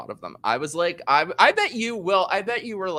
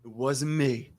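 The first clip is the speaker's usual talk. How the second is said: a singer; 3 semitones lower, 6 dB quieter than usual. Retold or imitated. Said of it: "Now do Shaggy like the singer".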